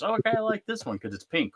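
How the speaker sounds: put-on high girlish voice for his daughter; imitating daughter. Dad mimics daughter choosing a pink kit, high and girlish. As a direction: play the excited little girl.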